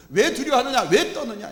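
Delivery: high, loud scolding with a laugh; half-laughing rebuke. Acted. Jesus rebukes the disciples, high and loud. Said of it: "책망을 하시는 겁니다".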